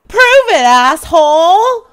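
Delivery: challenging shout. Pretend. Caller challenges a stranger on the phone, challenging shout. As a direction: shout it as a dare.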